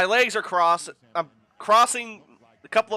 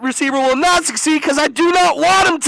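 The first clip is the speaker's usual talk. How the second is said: defiant retort; 6 semitones higher, 5 dB louder than usual. Real, not acted. Retort to TV analyst.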